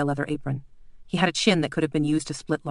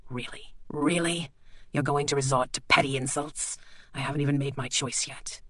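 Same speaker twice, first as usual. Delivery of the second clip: quiet menacing doctor; 4 dB quieter than usual. Acted. Bleak quietly reminds the lord of their deal.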